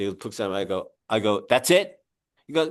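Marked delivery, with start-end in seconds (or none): 1.5-2.0 higher, rising incredulous question; retold disbelief. Homeowner questions inspector about a quick check, mock disbelief. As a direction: act out puzzled surprise, ending up.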